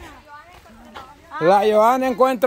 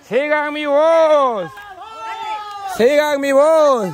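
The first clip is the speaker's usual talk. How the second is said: calling out. Real, not acted. Host leading players by voice, calling out. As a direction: stretch the words out so searchers can follow.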